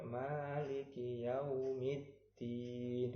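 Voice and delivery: "Yaumiddin" with the doubled "dd" held and pressed; slow chant with a pressed double "d"; stressed doubled dal. Shown as a demonstration. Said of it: "harus ditekan".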